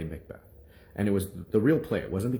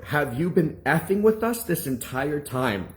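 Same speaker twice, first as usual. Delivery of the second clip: slow, higher accusing question; shocked anger; 6 semitones higher than usual. Retold or imitated. Teacher accusing a sixth grader of fooling them, angry. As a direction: imitate an angry teacher, drawn out. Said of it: "pissed, shocked, and angry".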